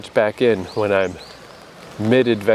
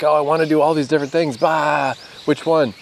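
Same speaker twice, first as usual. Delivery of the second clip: fast, higher, eager and scattered; excited indecision; 6 semitones higher than usual. Retold or imitated. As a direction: rattle off every option at once, overwhelmed. Torn between plans on waking up.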